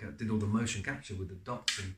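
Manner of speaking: ordinary delivery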